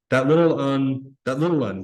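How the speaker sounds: a mild gasp, short of air; Piggy panicking over the missing boy, gasping. Acted. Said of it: "gasped Piggy".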